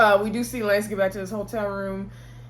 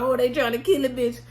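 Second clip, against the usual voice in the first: mock outrage; 3 semitones higher than usual. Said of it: "And she's like".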